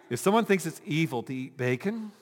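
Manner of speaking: laughing. Real, not acted. Rereads line while laughing.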